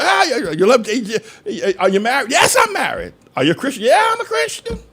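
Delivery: high, mocking pious voice trading questions; mock dialogue. Preacher mocks married Christians, high sneering voice. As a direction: ham up the smug yes-I'm-a-Christian answers.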